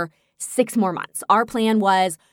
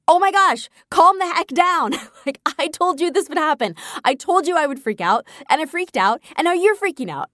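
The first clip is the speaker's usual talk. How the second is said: exasperated; 8 semitones higher than usual. Retold or imitated. Replaying to listeners what she told Jeremy, exasperated high teasing. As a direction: playfully tell him to calm the heck down. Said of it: "And I was like".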